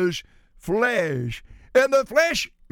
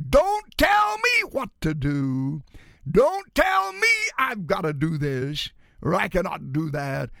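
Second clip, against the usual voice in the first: defiant flesh; 3 semitones lower than usual. Acted. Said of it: "The flesh cries out".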